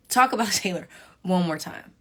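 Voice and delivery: laughing dare. Pretend.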